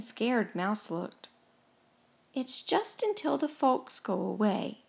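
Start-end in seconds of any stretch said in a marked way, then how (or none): 2.3-4.8 softer, gentle reassurance; kindly. A narrator's reading. Gus comforts meek, scared Mouse, kindly. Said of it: "he said kindly".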